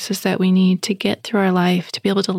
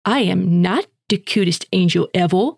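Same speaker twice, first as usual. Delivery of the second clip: mock condescending little boy; judgy. Son correcting his mother, mock condescending. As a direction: look down your nose at mom. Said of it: "he got really, like, judgy".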